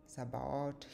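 Sabaoth in three syllables, sa-ba-oth; saying Sabaoth. Shown as a demonstration. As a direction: pronounce "Sabaoth" carefully as a list item. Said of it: "several variations in spelling and pronunciation".

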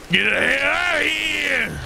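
sudden yell at the screen; shout. Real, not acted. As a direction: shoo it away with a yell. Yelling at spooky teepee.

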